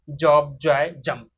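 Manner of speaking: "जॉब", "जॉय", "जंप" with a voiced hard j; demonstrated J sound. Shown as a demonstration. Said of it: "जे वाला जो ज sound".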